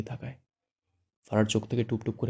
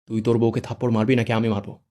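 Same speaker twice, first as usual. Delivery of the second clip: louder, pressing angry challenge; repeated demand, now angrier; 5 dB louder than usual. Acted. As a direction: push the threat harder. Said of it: "আবারও রেগে বলে".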